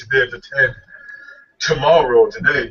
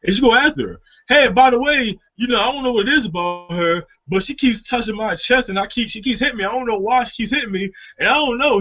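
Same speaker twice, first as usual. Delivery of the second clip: higher, eager buddy rambling; mock clueless buddy; 5 semitones higher than usual. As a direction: act the oblivious friend oversharing. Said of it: "that one guy just like".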